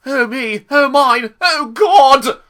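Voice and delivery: high, loud mock wail building to a cry; hammed-up high-pitched lament; Toby impression. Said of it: "I thought he said".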